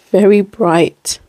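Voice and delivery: "Very bright" drawn out slowly; slow emphasis. Real, not acted. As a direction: linger on "very" in "Very bright". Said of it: "Look at that color".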